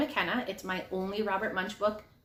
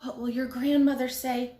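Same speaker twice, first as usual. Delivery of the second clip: high, loud scolding mother; mother yelling at messy Jillian; 10 semitones higher, 6 dB louder than usual. A narrator's reading. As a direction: scold her child in a rush. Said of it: "came out of the house yelling".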